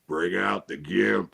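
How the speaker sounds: slow, low gimp line. Retold or imitated. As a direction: drag it out slow and low, deadpan. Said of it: "all I do is I go".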